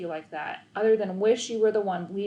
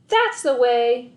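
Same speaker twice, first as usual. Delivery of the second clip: loud, slow coach's cheer; cheering shout; 3 semitones higher, 8 dB louder, slower than usual. A narrator's reading. Coach cheering the boy's perfect goal, loud and slow. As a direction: praise the goal loudly. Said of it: "he'd scream".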